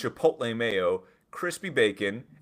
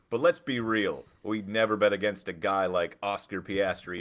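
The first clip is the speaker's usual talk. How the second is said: mock corporate apology; 4 dB louder than usual. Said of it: "here's the statement".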